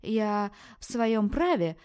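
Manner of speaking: high, loud, slow indignation; indignant retort. Acted. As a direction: insist on her right, outraged. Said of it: "возмутилась наглая незнакомка".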